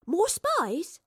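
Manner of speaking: put-on high, eager girl's voice; curious young girl. A narrator's reading. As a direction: pester him with questions. Astrid eager.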